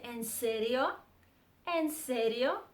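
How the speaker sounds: rising, disbelieving question; surprised "en serio" with a rising tune. Shown as a demonstration. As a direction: react to shocking news. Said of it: "shocked or surprised".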